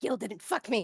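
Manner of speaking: angry, heated delivery. Answering in a roleplay game as another player hears it, angry. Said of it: "You sound angry about that".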